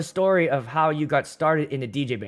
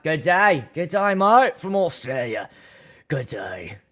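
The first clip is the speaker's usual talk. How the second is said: Australian greeting; slower than usual. Retold or imitated. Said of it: "say something in Australian".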